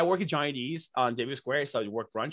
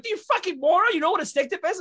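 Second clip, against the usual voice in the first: higher, louder mock outrage; 4 dB louder than usual. Guest retelling his jab at Jimmy Kimmel, higher and louder. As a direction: berate him in fun disbelief. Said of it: "I'm like".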